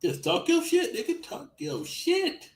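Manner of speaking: high, laughing cheer; laughing hype. Real, not acted. Cheering cohost's trash talk while laughing. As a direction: egg him on through laughter.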